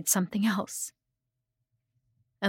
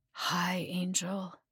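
warm slur; 7 dB quieter, much slower than usual. A narrator's reading. Undead father greeting his child, warm and softly slurred. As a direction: greet softly and warmly, words a little loose. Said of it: "he slurred, but his voice was right and warm and welcoming".

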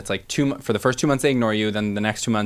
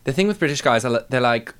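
attempted British accent. Shown as a demonstration. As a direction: try a British accent, then give up. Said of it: "I can't really do a British accent".

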